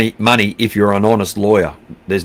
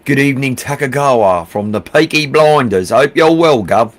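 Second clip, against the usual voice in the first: hammed-up Peaky Blinders accent; bad British accent; 3 semitones higher than usual. Greeting a viewer from the Peaky Blinders, piss-poor British accent. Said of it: "Mate, really p-, piss poor accent".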